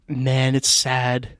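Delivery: imitating a sunken uncle, low and slow; soft, slow, downcast mock lament; quiet and sad. Retelling drunk uncle suddenly gone morbid, quiet and sad. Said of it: "he gets quiet, and his face, like, sinks".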